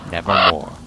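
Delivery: low, loud, ominous croak; raven's reply. Acted. The raven answers the speaker, low and ominous. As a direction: drop deep and toll the word like a bell. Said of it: "Then the bird said".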